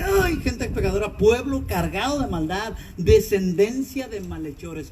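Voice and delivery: slow, lamenting indictment; grieving lament. Retold or imitated. Pastor reading God's lament to the congregation, slow grieving. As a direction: drag the words out in sorrow. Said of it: "Dios dice gimiendo".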